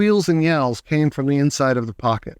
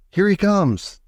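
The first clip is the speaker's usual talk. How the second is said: high excited call; yelled; 6 semitones higher, slower than usual. A narrator's reading. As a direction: announce it eagerly. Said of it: "yelled Mister Wonka".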